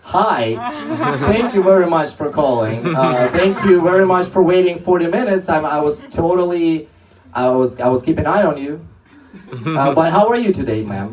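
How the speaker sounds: phony chipper agent apologizing for the wait; fake cheerful agent. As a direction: overdo the friendly call-center welcome. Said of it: "be like".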